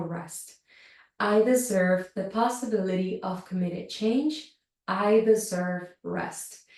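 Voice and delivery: slow, measured affirmation reading. Acted. Yoga teacher reading a card to her class, slow affirmation reading. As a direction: read each line slowly, with space around it.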